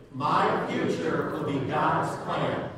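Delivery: slow, loud, measured chant; group recitation. Shown as a demonstration. Preacher reciting along with congregation, slow and deliberate. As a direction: lead the room word by word. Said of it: "Say that with me".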